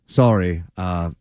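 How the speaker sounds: lightly voiced low apology; James Bond apologising. Acting out Bond's apology to M.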